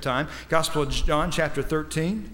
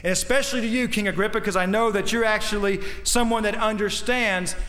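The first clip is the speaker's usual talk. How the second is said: lightly acted, higher-pitched earnest appeal; Paul's plea; 5 semitones higher than usual. Preacher speaking as Paul to King Agrippa, earnest appeal. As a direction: build a preacher's plea, climbing toward the end.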